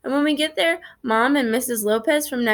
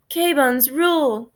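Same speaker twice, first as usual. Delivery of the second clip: shaky voice; 4 semitones higher, much slower than usual. Acted. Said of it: "his voice is as rattly as the freeway pole".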